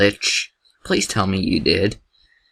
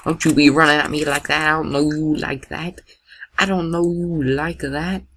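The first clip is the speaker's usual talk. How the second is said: higher, playful telling-off; mock sassy scolding; 5 semitones higher than usual. Gamer telling off a charging dinosaur, mock sassy scolding.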